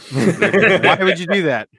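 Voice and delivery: put-on terrible Aussie accent breaking into laughter; a colleague baffled by the battery plan in a bad Australian accent; bad Australian accent, laughing. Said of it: "That was a terrible Australian accent".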